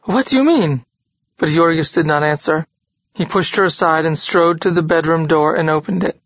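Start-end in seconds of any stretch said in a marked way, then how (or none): 0.0-0.8 frightened stammer. A narrator's reading. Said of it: "she gasped".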